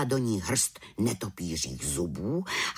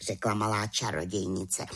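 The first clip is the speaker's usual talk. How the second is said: ordinary delivery, nothing marked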